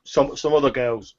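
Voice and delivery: a flustered shopkeeper stammering; a hint of a nervous old shopkeeper; turnip seller woman. Seller continues.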